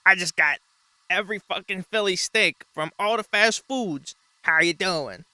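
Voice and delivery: loud obnoxious food reviewer voice; obnoxious guy. Retold or imitated. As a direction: play the brash obnoxious reviewer. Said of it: "that one really obnoxious guy that goes".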